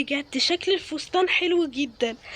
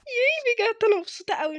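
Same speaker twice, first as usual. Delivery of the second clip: higher, delighted squeal on ياي; thrilled squeal; 6 semitones higher than usual. Acted. Daughter squealing with joy over the engagement dress. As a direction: burst out with girlish glee.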